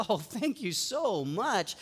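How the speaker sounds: slow, drawn-out retold gratitude; lightly acted relief, stretching out the thanks; profuse thanks. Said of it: "I thanked him profusely".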